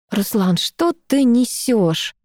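slow, pained disbelief; wincing, irritated. Acted. Girl winces at ex's nonsense, slow and irritated. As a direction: drag it out with distaste. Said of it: "поморщилась я".

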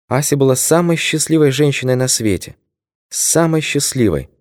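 put-on high, near-tearful old woman; an old widow's voice about to sob; tearful old lady. A narrator's reading. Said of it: "Старушка зарыдала".

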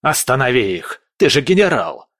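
loud desperate shouting; frantic yelling. Acted. Prince shouts at the general to stop the mutiny, frantic. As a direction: demand it at the top of your voice. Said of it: "заорал Бобшильд".

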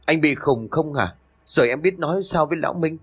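sharp snap. A narrator's reading. Woman snapping at her lover about the husband, sharp irritated snap. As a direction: cut him off sharply. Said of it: "Trúc liền gắt".

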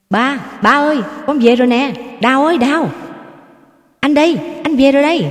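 high, loud, fast shouts of joy; joyful calling out. A narrator's reading. Son returning home calls to father and wife, joyful shouting. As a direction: call out home, overjoyed. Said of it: "Nguyễn Phan hí hửng reo lên".

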